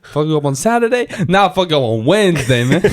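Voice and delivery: put-on Spanish accent. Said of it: "Doing Spanish accents".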